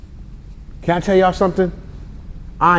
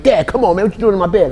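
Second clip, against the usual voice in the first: put-on annoyed teen son; 7 semitones higher, faster than usual. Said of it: "He'll be like".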